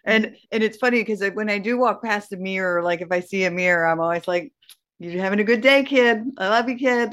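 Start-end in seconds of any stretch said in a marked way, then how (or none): 5.0-7.1 pep talk. Retold or imitated. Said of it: "giving myself that pep talk".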